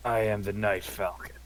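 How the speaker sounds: a hint of brooding edgelord; dark, self-serious hero voice; edgy brooding voice. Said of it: "A lot of edge there".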